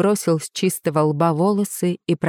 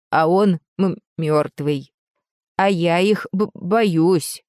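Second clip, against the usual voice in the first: put-on frightened old woman, stammering; stuttering old woman. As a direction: break words with a nervous stutter. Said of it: "Заикание снова исчезло".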